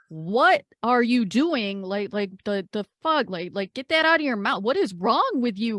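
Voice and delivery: exasperated, incredulous telling-off; indignant scolding. Acted. Mel scolding a party member for eating the map, indignant. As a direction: scold them in disbelief, stressing each question. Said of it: "she'd be like".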